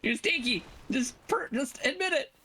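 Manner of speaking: high, taunting accusation; teasing. Real, not acted.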